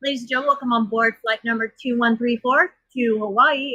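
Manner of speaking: cheerful cabin announcement; flight attendant. Retold or imitated. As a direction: welcome passengers aboard over the intercom. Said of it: "I used to joke around and be like".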